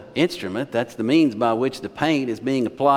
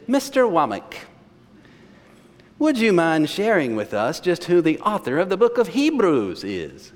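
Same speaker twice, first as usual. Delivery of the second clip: put-on higher-pitched Dutch-accented professor; 4 semitones higher than usual. Professor catches student joking in hallway, Dutch accent. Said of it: "in his Dutch accent".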